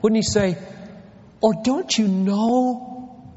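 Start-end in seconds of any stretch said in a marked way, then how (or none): 1.4-3.3 incredulous tone. Retold or imitated. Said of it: "put a tone of voice in here".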